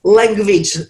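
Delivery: clipped Russian-accented English; broken English in an Eastern European accent. Shown as a demonstration. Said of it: "like, with Russian".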